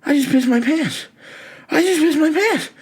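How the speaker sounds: very high, squealing panic; shrill panic. Retold or imitated. Scared kid at home after wetting himself, squealing. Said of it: "and I'm like".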